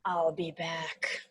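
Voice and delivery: slow, low Arnold impression; Terminator line. Kid demon leaving for hell, slow low Terminator impression. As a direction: growl it like the Terminator. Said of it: "like Arnold Schwarzenegger at the end".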